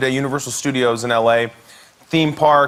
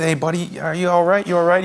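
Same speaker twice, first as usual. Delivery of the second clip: concerned dad; 3 semitones higher, faster than usual. Retold or imitated. Dad checking on crying son.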